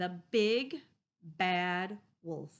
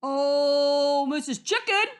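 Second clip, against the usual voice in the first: high, slow, sugary coaxing; sweet wolf; 7 semitones higher, 12 dB louder than usual. Acted. Wolf sweetly begs Missus Goose, high and slow. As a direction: coax her sweetly to open up. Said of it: "said the Big Bad Wolf sweetly".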